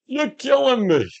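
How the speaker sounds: high, drawn-out catchphrase cry; slow high-pitched hammed-up whine; mock exasperation. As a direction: stretch it out way up high in mock agony. Playfully repeats a movie catchphrase.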